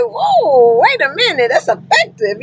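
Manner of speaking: high, surprised exclamation; amazed whoa. Retold or imitated. Retelling her reaction to a driver's story, amazed. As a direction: pitch jumps up in disbelief. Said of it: "I was like".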